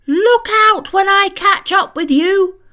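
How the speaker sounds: high, loud furious threat; angry cat shrieking a threat. Acted. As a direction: shriek it at the unseen thief. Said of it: "she shrieked".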